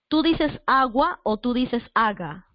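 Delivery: "agua" with a sounded U, then "aga" without it; slow, set "agua" against "aga"; contrasting agua and aga. Shown as a demonstration. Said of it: "tú sí estás pronunciando la U". (contraste lento entre "agua" y "aga")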